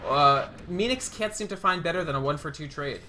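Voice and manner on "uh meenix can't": brisk esports fight call, punchy on the big moments; live play-by-play. Real, not acted. Caster calling a relocate ambush for viewers, energetic play-by-play. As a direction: narrate the action as it breaks.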